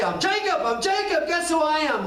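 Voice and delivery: high, eager boasting; mock-proud "guess who I am". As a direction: show off the name proudly. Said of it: "didn't jump up and say".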